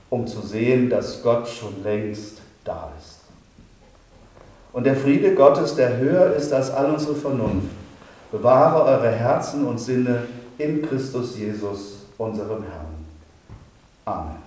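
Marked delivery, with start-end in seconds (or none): 4.7-14.4 pastor's closing blessing. Acted.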